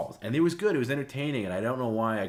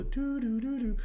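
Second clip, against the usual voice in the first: high sung doo-doo beep imitation; imitated censor jingle, pitched high; censor beep sound; 3 dB louder than usual. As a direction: mimic the radio delay tone. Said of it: "sound effect on the radio".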